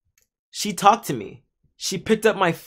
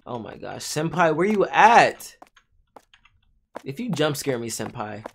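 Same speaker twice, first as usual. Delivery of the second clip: scared horror game streamer; 2 semitones lower than usual. Real, not acted. Creeping around, fearing jump scare.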